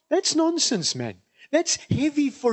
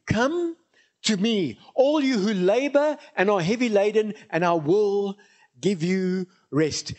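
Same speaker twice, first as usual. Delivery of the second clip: Jesus's invitation. Acted. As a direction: invite the weary, rising on Come. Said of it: "Jesus speaking".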